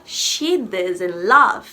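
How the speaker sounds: He doesn't love spoken very slowly, each word laid out; slow modelling. Shown as a demonstration. Teacher modelling English for Brazilian students, slow and careful. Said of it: "teacher modelling English sentence".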